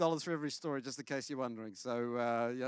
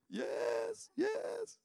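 put-on little boy; 14 semitones higher than usual. Son answering, voiced child.

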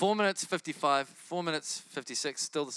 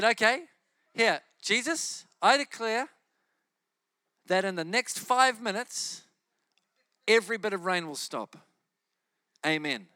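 mock bold prayer; 4 semitones higher, 4 dB louder than usual. Preacher retelling his prayer over the rain, loud and bold. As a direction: proclaim it boldly to heaven.

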